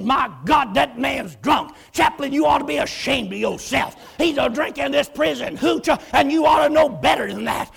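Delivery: loud, rising scold; retold angry officer; scolding captain. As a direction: tell the chaplain off.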